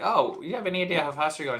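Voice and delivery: quick imitation of an Irish-accented cop; mock Irish accent at a brisk pace. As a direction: put on a light Irish brogue. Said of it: "we filmed the Irish way".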